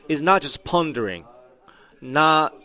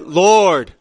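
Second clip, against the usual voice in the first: crying out; 5 semitones higher, 10 dB louder than usual. Retold or imitated. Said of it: "He said".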